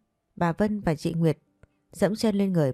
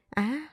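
terrified high scream; 8 semitones higher, 4 dB quieter than usual. A narrator's reading. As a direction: let out a piercing cry of fright. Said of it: "Bà thầy hét toáng lên".

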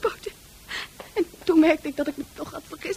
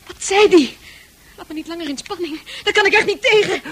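eager impatience; 7 dB louder than usual. Pretend. Impatient listener begging.

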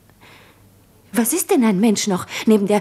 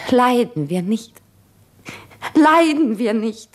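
anguished insistence; 3 dB louder than usual. Acted. Woman pouring out her suffering to Jura, anguished. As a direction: press harder on the second cry. Anguished repeated outcry, building.

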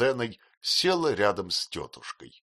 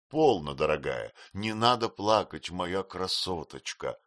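tender comfort. Acted. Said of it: "ласково проговорил Хэм".

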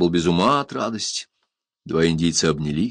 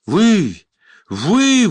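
high, loud cry of recognition; exclaiming; 12 semitones higher, 6 dB louder than usual. A narrator's reading. Prisoner recognizing his rescuer, crying out in joy. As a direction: burst out in astonished joy. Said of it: "воскликнул он".

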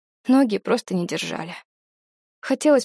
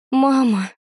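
wailing softly; 4 semitones higher, 4 dB louder than usual. A narrator's reading. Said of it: "завыла я тихонько".

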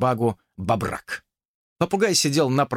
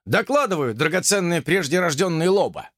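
officer snapping to attention, higher; dutiful officer report; 5 semitones higher than usual. Acted. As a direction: report crisply to a superior. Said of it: "Вейбин вытянулся".

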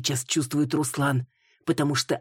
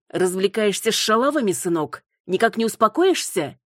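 scornful rebuke; 6 semitones higher, 4 dB louder than usual. Acted. Mother scolds son.

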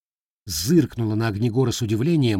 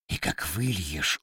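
deep demon voice; 5 semitones lower, 7 dB quieter than usual. Acted. Repeated phrase, slow demon.

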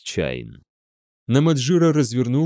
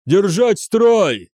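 high, loud, drawn-out cry; yelled command; 8 semitones higher, 5 dB louder, much slower than usual. A narrator's reading. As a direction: hold the men together by shouting. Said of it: "вопил он". (протяжный командный вопль)

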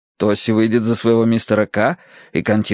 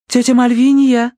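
calling out; 13 semitones higher, 5 dB louder than usual. A narrator's reading. Verity calls to aunt.

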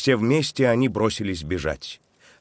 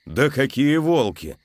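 hiccupping; 6 semitones higher, slower than usual. A narrator's reading. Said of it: "икнул Антон".

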